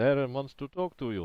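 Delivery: strong put-on Russian accent. In a role-play, a character relays a message from the boss; very Russian accent. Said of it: "very Russian accent now".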